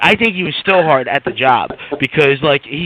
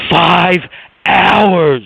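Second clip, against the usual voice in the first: imitating a happy brag, louder and drawn out; happy boast; 4 dB louder than usual. Coworker with hand in air, happy boast. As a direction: proudly stretch each word, lightly mimicking him. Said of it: "he's all happy".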